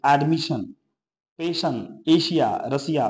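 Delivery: "एडमिशन", "पेशन", "एशिया" with a sh sound before the ending. Shown as a demonstration. Teacher giving examples of S before IA or ION, "एडमिशन" with sh. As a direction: separate example words, showing sh in "पेशन" and "एशिया". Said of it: "इसका उच्चारण से होता है".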